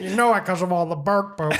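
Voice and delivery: laughing imitation of the neighbor; imitating the neighbor while still laughing. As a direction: mimic him through laughter. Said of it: "That's how he sounds".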